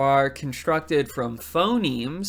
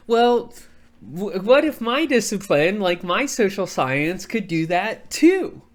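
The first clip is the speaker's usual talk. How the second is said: voicing social scientists' thought; 4 semitones higher, 3 dB louder than usual. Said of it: "they start to think".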